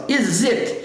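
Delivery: "Is it" joined up as "izit"; S emendado. Shown as a demonstration. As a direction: glide from "Is" into "it" without a break. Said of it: "Eu emendo esse S". ("Is it" emendado, numa palavra só)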